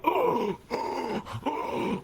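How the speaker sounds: high, airy little "oh"s of shock; mock stunned gasps, pitched high; imitated shocked gasps. Gossipers caught out by a fluent speaker, mock shock.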